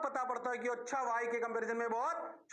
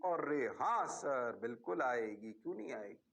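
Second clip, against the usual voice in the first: mock student voice; 8 semitones lower than usual. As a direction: play the class answering confidently. Teacher voices students' reply.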